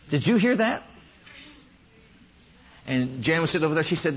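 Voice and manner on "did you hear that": higher, incredulous rising question; acting out mild alarm; retold startled question. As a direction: ask it high, as if alarmed.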